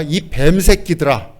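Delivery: slow, mildly angry name-calling; understated righteous anger; acted angry insult. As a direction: stretch out the insult in indignation. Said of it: "막 분노하시면서".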